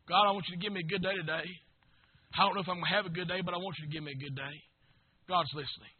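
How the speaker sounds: soft, low, quick murmured prayer; hushed private prayer; quiet prayer. Acted. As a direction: pray it under your breath.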